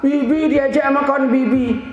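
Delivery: put-on high little-kid complaint; mock crying child, high pitch; tearful child. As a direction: imitate a child explaining through tears. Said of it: "Kenapa nangis?".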